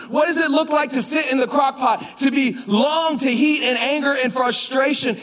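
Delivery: high-pitched, driving preacher build; impassioned exhortation. Retold or imitated. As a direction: press it home phrase after phrase.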